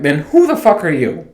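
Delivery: worked-up imitation of being fed up; exasperated rant. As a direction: demand it in mock outrage, short of screaming. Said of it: "getting ready to just scream".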